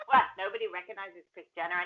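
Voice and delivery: put-on crooner accent. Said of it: "my go-to American accent is basically, like, some kind of crooner mob-esque thing".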